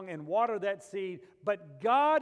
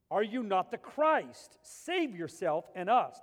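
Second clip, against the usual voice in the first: scornful mocking; slower than usual. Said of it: "There's scorn in his voice in this".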